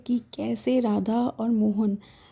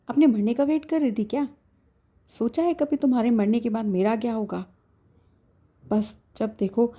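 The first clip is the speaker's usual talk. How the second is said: mildly angry scolding; 2 semitones higher than usual. Acted. Husband scolds sick wife for hiding illness, mildly angry. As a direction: scold her half in anger, half in worry. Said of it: "Mohan थोड़ा गुस्से में बोला".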